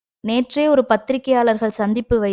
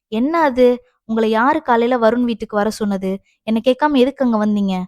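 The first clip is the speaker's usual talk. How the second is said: angry; 2 semitones higher than usual. Acted. Daughter questions her mother about visiting without asking, angry. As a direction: demand an explanation, annoyed. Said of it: "அதிதிக்கு கோபம்தான் வந்தது".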